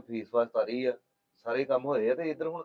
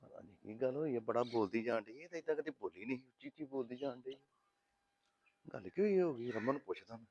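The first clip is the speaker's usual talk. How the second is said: very soft, puzzled aside; wondering to himself; 2 semitones lower, 7 dB quieter than usual. Acted. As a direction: think aloud under your breath. Man wondering to himself about noise. (ਸੋਚਦਿਆਂ ਆਪਣੇ ਆਪ ਨਾਲ ਧੀਮੀ ਆਵਾਜ਼ ਵਿੱਚ)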